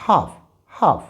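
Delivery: half said as haf, no l; silent l demo. Shown as a demonstration. Teacher showing students the silent l in half. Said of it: "it will be".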